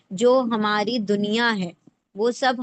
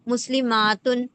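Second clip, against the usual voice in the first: مسلماتن drawn out, leaning on the aat; teacher showing the feminine plural ending; slow demo pronunciation. Shown as a demonstration. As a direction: let مسلماتن unfold slowly against مسلمن. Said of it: "مسلمن،".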